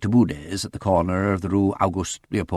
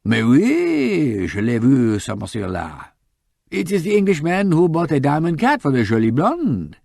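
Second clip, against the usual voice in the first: put-on higher, quick French-accented young lady; eager French shop girl; 7 semitones higher, 5 dB louder than usual. Shop girl recognizing the photo for the detective, eager French accent. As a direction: pipe up brightly, sure of herself, French accent.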